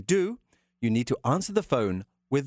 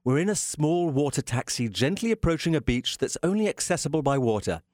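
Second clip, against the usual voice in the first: travel narration. Acted. Scene-setting travel narration.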